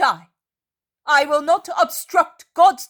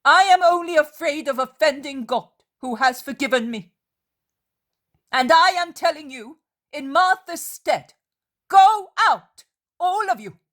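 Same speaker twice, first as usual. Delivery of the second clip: loud, much higher, furious commands; wrathful; 8 semitones higher, 6 dB louder than usual. A narrator's reading. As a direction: drive them out of the house in fury. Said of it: "She is imposing in her wrath".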